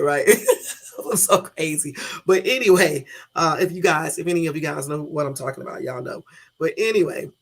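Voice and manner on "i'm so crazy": laughing. Real, not acted. Laughing at own joke.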